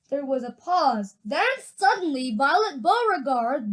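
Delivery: lively, expressive read-aloud; story narration. A narrator's reading. Reader tells of Wonka's gum machine, animated storytelling. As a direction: tell the story with swooping emphasis on key words.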